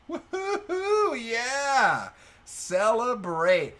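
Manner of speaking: high, loud victory whoop; real elated shout; jubilant celebration. Real, not acted. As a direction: cheer the big win, drawing the words out. Celebrates winning a huge pot.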